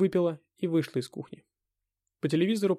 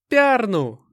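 loud high shout; 9 semitones higher, 10 dB louder than usual. A narrator's reading. Anna shouts the answer at the hero, loud and high. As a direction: fling the name out. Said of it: "крикнула Анна".

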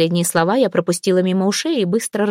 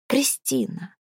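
soft breathy whisper of her name; 6 semitones higher, 7 dB quieter, slower than usual. Acted. Boss pressing her to the wall, whispering her name. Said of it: "прошептал он мне в лицо".

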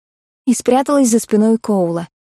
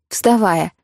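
ordinary delivery, nothing marked

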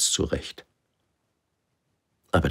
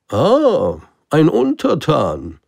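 high, loud, slowed delight of a lonely king; 11 semitones higher, 7 dB louder, slower than usual. Acted. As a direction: savour the word like a treasure found. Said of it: "freute er sich". (erfreuter König, hoch, laut und gedehnt)

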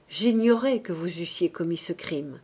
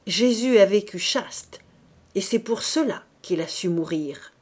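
furious; 3 dB louder than usual. Acted. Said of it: "au comble de l'emportement".

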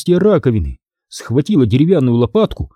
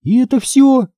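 с усмешкой; 12 semitones higher than usual. Acted. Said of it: "усмехнулась я".

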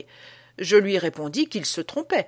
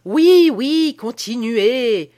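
eager urging; 6 semitones higher, 9 dB louder, much slower than usual. Acted. Listener urges guard on eagerly.

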